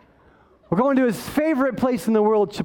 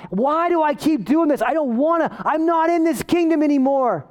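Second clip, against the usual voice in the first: high, insistent preacher's plea; acted frustrated self-reproach; anguished protest; 5 semitones higher than usual. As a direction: protest against yourself, pitched up. Voicing anguish over own sin.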